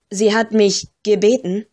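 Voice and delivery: "gebeten" given particular emphasis; stress on gebeten. A narrator's reading. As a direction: lean pointedly on the last word, "gebeten". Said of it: "dieses letzte Wort betonte er besonders". ("gebeten" besonders betont)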